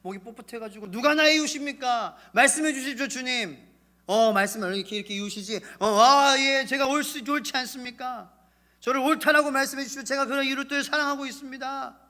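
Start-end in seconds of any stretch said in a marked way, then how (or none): 0.9-3.6 proud lawyer. Acted. Proud lawyer voiced in sermon. 6.0-12.0 self-righteous plea. Acted. Lawyer justifying himself.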